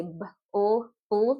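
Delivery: "b, l, bl" each sound then joined; separate then blended. Shown as a demonstration. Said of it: "B L, you say".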